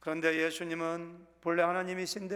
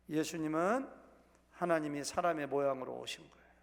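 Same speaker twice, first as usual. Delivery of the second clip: ordinary talk, nothing marked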